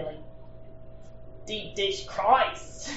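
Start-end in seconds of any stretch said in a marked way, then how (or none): 1.5-2.9 put-on slow, laughing Chicago accent; a badly faked Chicagoan; mock Chicago accent. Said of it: "they would say".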